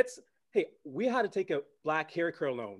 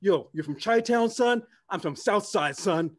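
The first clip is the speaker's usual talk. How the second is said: imitating a Chicago guy; 4 semitones higher, slower than usual. Fans after the show, mock tough Chicago talk. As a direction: lightly put on swagger. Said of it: "people coming up saying".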